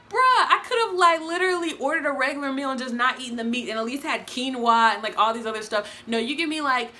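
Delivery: high, indignant complaint; exasperated. Retold or imitated. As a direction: vent in disbelief. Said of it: "I'm like".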